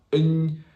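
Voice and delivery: "N" said as the Spanish ñ sound; palatal n sound. Shown as a demonstration. Teacher showing French GN sound, palatal "N". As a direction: hum "N" as ny, not the letter name. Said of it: "exactly equivalent to the N tilde".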